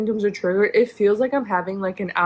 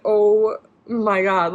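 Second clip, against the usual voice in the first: tearful whisper-slow; much slower than usual. Real, not acted. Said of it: "I could not stop the tears".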